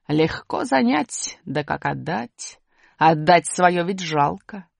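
медленно, нараспев, с насмешкой; усатый декламирует стишок; декламация. Acted. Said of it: "начал декламировать громким голосом". (слегка громкая насмешливая декламация)

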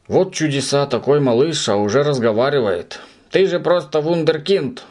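high teasing mock praise; mock him as a little genius. A narrator's reading. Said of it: "насмешливо проговорил".

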